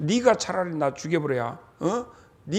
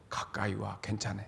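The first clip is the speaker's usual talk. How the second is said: soft calling; 8 semitones lower, 11 dB quieter than usual. Acted. Calling boy near, safe signal.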